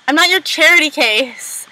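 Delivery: mock indignation, drawn out; retold upset. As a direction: imitate someone upset and offended. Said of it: "he gets upset because he's like".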